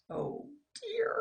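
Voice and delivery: slow, hushed dread; fearful whisper. Acted. Sam whispering in fear at the news. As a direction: whisper in worry.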